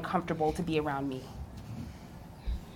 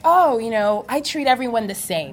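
higher-pitched mimicry of professors in denial; mock denial; 4 semitones higher, 5 dB louder than usual. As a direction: protest innocence, mockingly. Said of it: "professors who do the denial".

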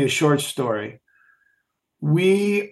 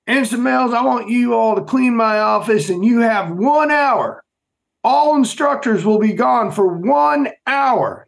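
put-on Southern instructor accent; 7 semitones higher, 4 dB louder than usual. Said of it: "he had this deep Southern accent".

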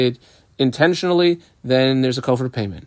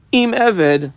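"Im" raised high before Eved; stress on Im; 7 semitones higher than usual. Shown as a demonstration. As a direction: pick out "Im" with higher pitch. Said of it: "emphasis on the word Im".

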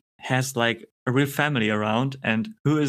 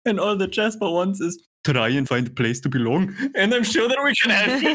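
second try at Scottish; 5 semitones higher than usual. Retold or imitated. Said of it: "Okay, let me do it".

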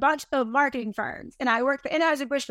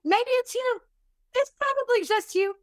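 teasing jab; 9 semitones higher than usual. Acted. Blunt teasing jab at listener.

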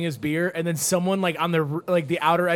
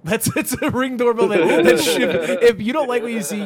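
excited; 6 semitones higher, 6 dB louder than usual. Real, not acted. Excited laughing pitch.

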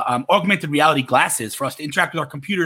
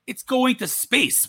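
mock exasperated; 10 semitones higher, much slower than usual. Retelling Louis CK's exasperated bit.

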